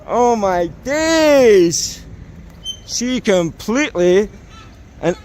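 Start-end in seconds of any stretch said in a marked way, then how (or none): 0.1-2.0 slow, stretched disbelief; drawn-out exclaim. Real, not acted. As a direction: stretch out the shock.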